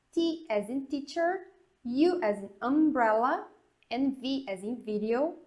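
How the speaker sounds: "Z as in zebra" with the English zee; teacher modelling the alphabet; English spelling drill. Shown as a demonstration. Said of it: "É assim que a gente pronuncia".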